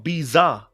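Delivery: Bizarre drawn out as "bee-ZAA"; Ibiza's ending with Z. Shown as a demonstration. Host asks how y'all got it, stretched Bizarre as bee-ZAA. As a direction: stretch Bizarre high and slow, buzzing Z. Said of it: "how y'all got Bizarre".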